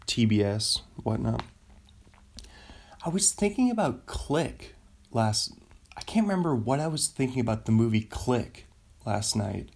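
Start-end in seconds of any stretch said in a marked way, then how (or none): 6.0-9.7 whisper. Real, not acted. Muttering to himself mid-thought.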